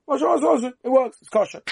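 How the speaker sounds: high, eager "masha, masha, masha"; excited approval. Real, not acted. Teacher happily telling students it is valid. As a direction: cheer that it works.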